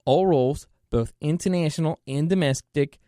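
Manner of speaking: reading the company email out, steady and plain; email read aloud. Shown as a demonstration. Reading the fraud warning email to viewers, a plain steady read. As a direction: read it out word for word, evenly.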